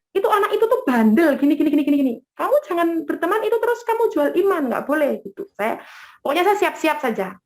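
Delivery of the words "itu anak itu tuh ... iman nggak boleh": higher-pitched, hurried mock telling-off; imitated scolding. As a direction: scold her like a superior, higher and quicker. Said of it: "saya dimarahin".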